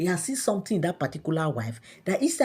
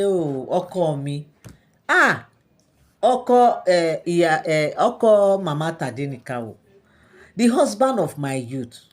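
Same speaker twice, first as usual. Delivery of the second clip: pleading to her husband, raised and louder; begging; 4 dB louder than usual. Retold or imitated. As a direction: coax the king to forgive you. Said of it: "she was just begging and begging".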